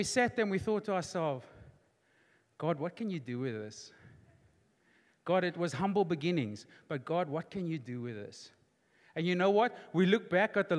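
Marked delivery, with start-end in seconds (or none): 2.6-3.9 low, soft plea to God; hushed prayer. Retold or imitated. Retold humble prayer to God. 7.0-8.5 low, soft plea to God; hushed prayer. Retold or imitated. Retold humble prayer to God.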